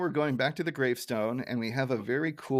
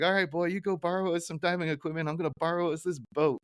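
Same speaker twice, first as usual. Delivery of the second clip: put-on old grandpa voice; 6 semitones higher than usual. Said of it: "he's like".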